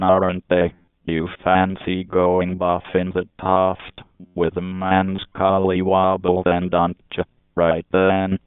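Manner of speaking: mock British banter, lightly accented. British man coaxing his mate, lightly put-on British accent. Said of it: "talking to each other with British accent".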